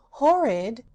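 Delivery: loud rising horrid; indignant echo. Acted. Patchwork Girl echoing the cat's insult, loud and rising. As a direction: toss the word back, offended.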